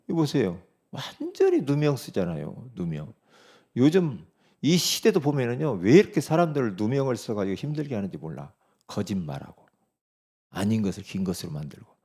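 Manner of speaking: ordinary delivery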